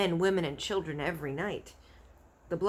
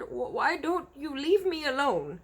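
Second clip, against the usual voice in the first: higher, stumbling plea; nervous giant pleading; stammering; 9 semitones higher, 3 dB louder than usual. A narrator's reading. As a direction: beg him to go. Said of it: "he stammered".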